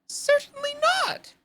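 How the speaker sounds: high, loud and slow, deeply offended; indignant. Acted. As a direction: sniff it out, indignant. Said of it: "said Alice indignantly".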